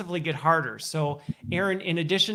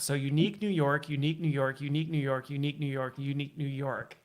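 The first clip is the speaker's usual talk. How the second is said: tongue twister demo; 2 semitones lower, 3 dB quieter than usual. Shown as a demonstration. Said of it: "you gotta say it five times".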